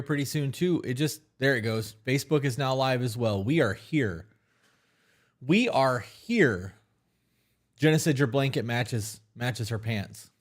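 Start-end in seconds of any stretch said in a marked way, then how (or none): 5.4-6.7 stretched slowly; each word drawn out slowly. Shown as a demonstration. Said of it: "repeated, stretched out".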